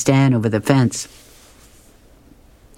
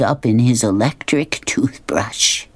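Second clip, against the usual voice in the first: whispered punchline; slower than usual. Acted. Opal confiding the cause to Nelson, whispered. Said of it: "Opal looks around and she says".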